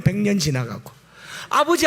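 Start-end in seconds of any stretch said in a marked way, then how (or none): 1.5-1.9 ecstatic praise. Acted. Acting out heaven's ecstasy.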